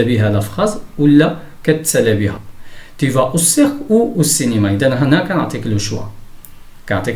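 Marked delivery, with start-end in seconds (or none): 3.0-4.7 slow, careful sentence reading; slow teacher's model sentence; example read-out. Shown as a demonstration. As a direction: read it out slowly for learners. Teacher reads example sentence aloud.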